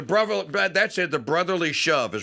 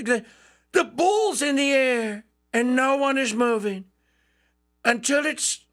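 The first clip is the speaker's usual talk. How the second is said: imitating Trump; 8 semitones higher than usual. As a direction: rant as Trump about the kickoff. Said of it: "and then he said".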